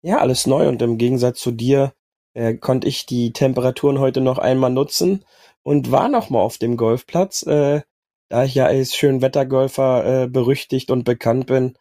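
husky, worn-out voice; hoarse voice. Real, not acted. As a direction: speak through a sore, hoarse throat. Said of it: "auch mit belegter Stimme".

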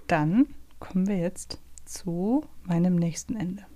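whispered, slow, like a secret; secretive whisper. Pretend. Quizmaster whispers the next ending to his co-host teasingly. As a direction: hush it as if revealing a mystery.

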